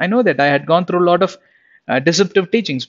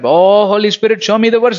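higher, louder mock-devout call; put-on pious plea, pitched up; mock pleading prayer; 4 semitones higher, 4 dB louder than usual. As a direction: imitate an eager believer calling on the Spirit. Mimics lucky Christians praying each morning.

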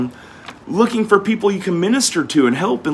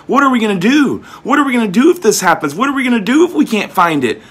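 mock worried voice; 6 semitones higher, faster than usual. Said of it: "Take no thought, saying".

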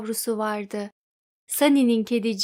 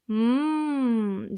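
mm of delight. Acted. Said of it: "dediler Dimbleby ikizleri bir ağızdan".

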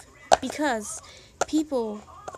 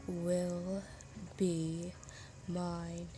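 put-on very slow, soft, possessive anime girl; hushed and drawn out, quietly obsessive; Yandere voice; 3 semitones lower, 7 dB quieter, much slower than usual. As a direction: murmur it slowly like a yandere. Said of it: "I do a great Yandere voice".

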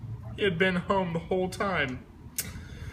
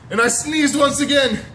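big sneeze build-up; 12 semitones higher, 8 dB louder than usual. A narrator's reading.

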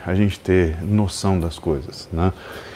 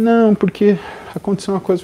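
sheepish friend; 10 semitones higher than usual. Retold or imitated. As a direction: hem and haw like a guilty friend. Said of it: "Eu falei". (amigo envergonhado, voz aguda)

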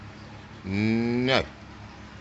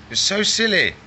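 cooing; 9 semitones higher, 3 dB louder than usual. Real, not acted. Cooing at lizard.

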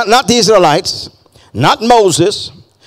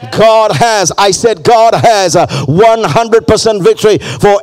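full-force preaching; 3 semitones higher than usual. Acted. Preacher rallying the congregation, half-singing. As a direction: drive it home to the church.

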